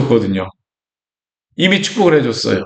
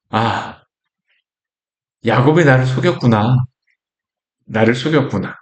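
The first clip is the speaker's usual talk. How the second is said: shaken realization; 4 semitones lower than usual. Acted. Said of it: "심히 크게 떨며 놀라 이야기한다".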